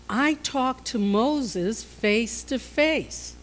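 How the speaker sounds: slow, emphatic divine reprimand; measured rebuke, leaning on key words with long pauses; displeased God. Acted. God rebuking Miriam and Aaron over Moses, slow and stern. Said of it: "God's not happy".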